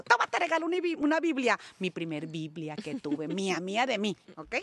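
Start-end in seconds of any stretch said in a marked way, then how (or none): 0.0-1.6 higher-pitched imitation of a mother; voiced mother. Mother giving a Bible at the door, lightly imitated. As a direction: lightly play Mom handing over a gift. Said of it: "Mi mamá así como que a la entrada me dijo".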